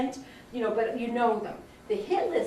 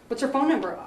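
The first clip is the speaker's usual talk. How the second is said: sharp raised grilling question, somewhat higher; Heidi drilling; 4 semitones higher, 4 dB louder than usual. Retold or imitated. Mentor grilling a student about contacts, mock-stern drilling. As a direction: fire the question like a ruthless mentor. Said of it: "she was screaming".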